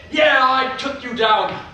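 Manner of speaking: loud, high ringside yelling; a kid hamming up a wrestling match; excited play wrestling. Pretend. Boy at play calling his own wrestling match, loud and high.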